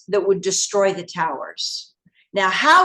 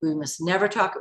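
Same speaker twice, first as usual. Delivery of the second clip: hushed warning; 3 semitones lower, 6 dB quieter than usual. Retold or imitated. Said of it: "he said".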